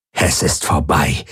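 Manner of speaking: low growl. A narrator's reading. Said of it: "knurrte die Aur". (tiefes Knurren)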